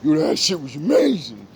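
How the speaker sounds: lightly voiced eager friend; fawning friend. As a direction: play the friend gushing a bit high. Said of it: "give 'em the shitty one".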